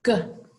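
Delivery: "Goat" split into "guh", a pause, then "oat"; sounded out. Shown as a demonstration. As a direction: sound out "Goat" with the hard g on its own. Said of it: "It has that G sound".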